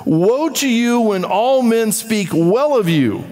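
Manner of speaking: slow with stress on well; deliberate pulpit emphasis; emphatic reading. Shown as a demonstration. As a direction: lean on each word slowly. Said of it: "now look at this one".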